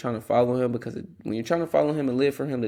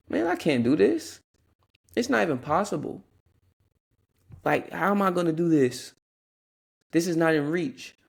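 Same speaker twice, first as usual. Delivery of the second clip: higher-pitched mock despair; imitating discouragement; 5 semitones higher than usual. Voicing friends sunk in unbelief, mock discouraged.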